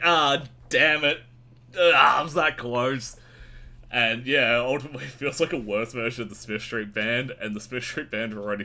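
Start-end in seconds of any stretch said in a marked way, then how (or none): 0.0-3.2 exasperated. Retold or imitated. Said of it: "and I'd be like".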